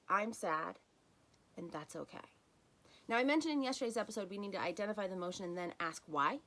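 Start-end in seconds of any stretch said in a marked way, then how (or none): 0.1-2.3 right way, accepting. Shown as a demonstration. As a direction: simply let the sadness be, gently. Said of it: "Instead, it's".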